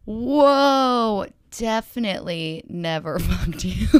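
loud mock "whoa", then laughing through the rest; laughing mock reply. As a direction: ham up his shocked reply, cracking up. Quoting Travis's shocked reply.

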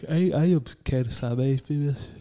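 talking through a yawn; words stretched by a yawn. Real, not acted. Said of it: "I'm sorry, I'm yawning".

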